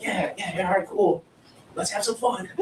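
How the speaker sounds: softly mumbled, half-hearted agreement; underplayed, subdued group reply; unenthusiastic crowd. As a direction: play along with little enthusiasm. Crowd answering the hyped guide.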